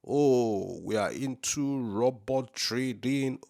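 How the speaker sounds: slow, airy put-on voice of a smug applicant; lightly mocking a company's boast; mock registrant. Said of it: "they can tell us they do whatever".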